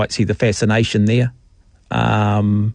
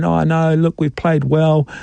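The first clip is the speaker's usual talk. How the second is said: mock excuse-making; 3 semitones higher, slower than usual. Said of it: "I don't want to hear people going".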